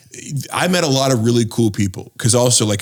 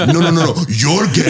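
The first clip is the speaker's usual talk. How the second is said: higher, louder mock Indian accent; 6 semitones higher, 5 dB louder than usual. Heckler shouting back at the speaker, in a mock Indian accent. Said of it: "he had this Indian accent".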